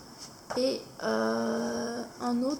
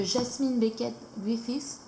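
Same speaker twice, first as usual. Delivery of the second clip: English name in a French accent; slower than usual. Real, not acted. Book reviewer naming an English-speaking artist, French-accented English. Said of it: "désolée pour mon accent anglais".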